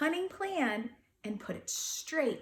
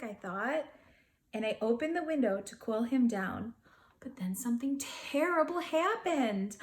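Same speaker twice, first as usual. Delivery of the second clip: put-on gentle read-aloud to children; storybook narration voice; story narration. A narrator's reading. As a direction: tell it like a bedtime picture book. Reading a picture book aloud.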